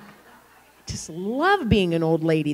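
slow words through a laugh. Real, not acted. Pastor amused at the boys obeying her, laughing. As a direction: chuckle your way through it.

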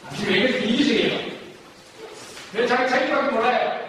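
accusing question, acted out for a class; mock reproach. Shown as a demonstration. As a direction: demonstrate a reproachful "why are you like this". Models accusing remarks to avoid.

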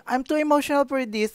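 lightly mocking, high, half-hearted complaint; not serious. Shown as a demonstration. Demonstrating the wrong way to quit a video, mock. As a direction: say it but don't mean it. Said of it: "Hindi ganun serious. Mali yun".

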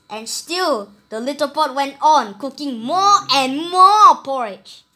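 storyteller building suspense; rising refrain. A narrator's reading. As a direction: swell the refrain. Refrain grows louder.

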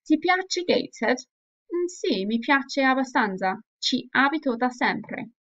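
reading both parts with lively Italian intonation; expressive dialogue reading. Shown as a demonstration. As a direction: act out the dialogue with clear expression. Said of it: "hear the pronunciation and also the intonation".

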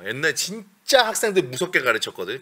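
normal talking voice

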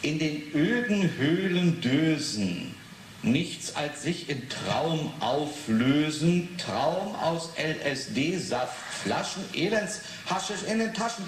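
slow, drawn-out poem reading. Acted. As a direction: read the verse slowly, weighing each line. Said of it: "reads poem from poster". (Gedicht langsam und getragen vorlesen)

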